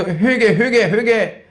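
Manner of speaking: mock insistent chant, repeating the demand; acting out friends pressing someone to repent; badgering. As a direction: hammer out each repeat, imitating a nag. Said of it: "계속 쪼아대는".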